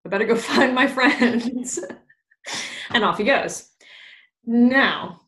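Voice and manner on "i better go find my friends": amused Bottom; higher, laughing quote. Retold or imitated. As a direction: chuckle mid-line.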